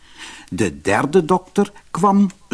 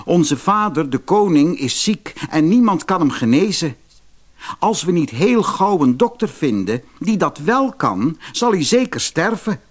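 put-on a young prince pleading, pitched up; worried young prince; 6 semitones higher than usual. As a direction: raise the voice for the anxious young prince.

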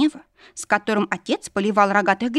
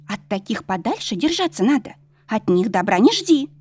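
put-on gossiping servant girl. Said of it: "продолжила шептать служанка".

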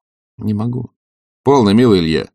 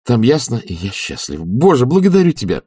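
higher, gladly rising relief; cheerful; 5 semitones higher than usual. Acted. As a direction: pour out happy relief. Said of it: "весело заключил он". (весело и с облегчением)

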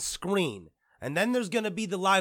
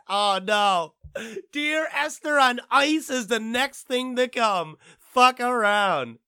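mock alarm; 7 semitones higher, 6 dB louder, slower than usual. Real, not acted. Mock dread prediction.

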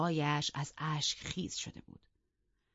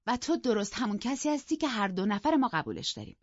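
bright, higher teasing voice; playful young woman; 5 semitones higher, 3 dB louder than usual. Acted. Catherine needling Isabella before Heathcliff, playful and high. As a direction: tease them both with mischief.

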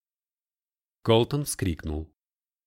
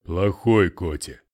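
sulky; 3 semitones lower, 6 dB louder, slower than usual. A narrator's reading. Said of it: "обиженно надулся".

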